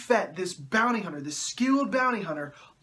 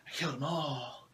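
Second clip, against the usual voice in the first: low, hushed mock confession; mock-anguished whining; 4 semitones lower, 8 dB quieter than usual. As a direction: drop soft and low, hammed-up. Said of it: "to whine some more".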